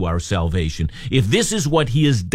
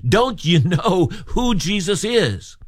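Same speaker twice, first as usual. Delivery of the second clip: higher, slow pointed question; preacher's slow, high challenge to the flock; rhetorical challenge; 6 semitones higher, slower than usual. Acted. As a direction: press the question home slowly.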